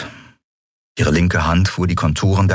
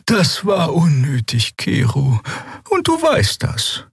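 high, slow gentle rebuke; reproving Xea; 11 semitones higher, slower than usual. A narrator's reading.

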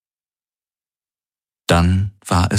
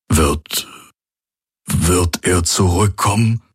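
unsure question; slower than usual. Acted. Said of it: "fragte Hox unsicher".

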